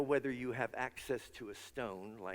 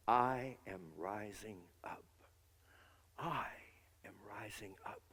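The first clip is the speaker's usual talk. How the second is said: whispered affirmation; 2 semitones lower, 4 dB quieter than usual. Shown as a demonstration. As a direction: breathe the words inward, almost voiceless. Private whispered affirmation, inner voice.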